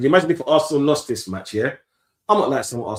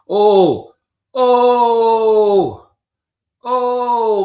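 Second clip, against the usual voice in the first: excited shout; 9 semitones higher, 9 dB louder, much slower than usual. Real, not acted. Skill on the pitch.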